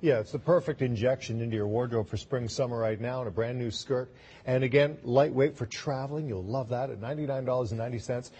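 upbeat sales pitch, pushing the deal; home shopping host. Acted. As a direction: sell it like live TV shopping. Host sells skirt with payments.

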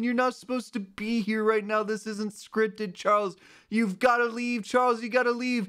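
streamer voice. Pretend. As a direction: fake streamer shooing a character away. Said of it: "my new streamer voice".

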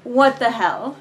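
exasperated outburst. Real, not acted.

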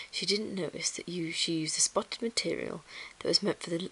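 measured bedtime-story reading; story narration. A narrator's reading. Reading a children's book to listeners, story narration.

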